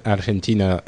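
Argentina said the Spanish way, Ar-khen-TEE-na with a trilled r; Spanish accent. Shown as a demonstration. Host says Argentina with a put-on Spanish accent. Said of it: "I take the Spanish accent when I say it".

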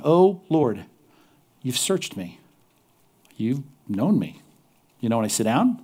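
measured reading with space after each phrase; reverent psalm reading. Acted. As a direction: read the psalm out prayerfully, leaving pauses. Reads the psalm aloud.

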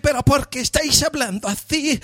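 high breathy moaning woman's voice; mock a moaning Spanish movie heroine; mock breathless film actress. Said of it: "hablan así como si se las estuvieran follando".

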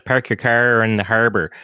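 put-on hard R Nova Scotian accent. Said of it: "I can do the, the Nova Scotian".

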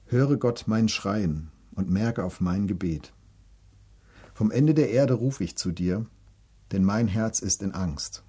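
measured devotional reading voice; psalm reading. Acted. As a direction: read the verses like a prayer. Reads psalm aloud.

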